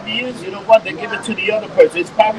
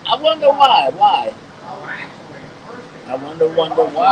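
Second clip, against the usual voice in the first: mock wondering; 3 semitones lower than usual. Real, not acted. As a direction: feign puzzlement, knowing the answer. Mock wondering about unreported scandal.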